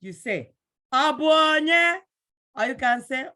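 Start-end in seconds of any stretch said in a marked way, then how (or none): 0.9-2.0 high, loud "Ọ bụ onye?" called toward the door; answering a knock. Acted. Someone knocks on your door, you call out loud. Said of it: "if I'm knocking on your door".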